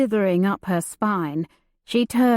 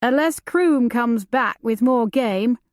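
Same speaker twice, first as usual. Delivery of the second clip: rough outlaw; 3 semitones higher than usual. Acted. Outlaw at the campfire.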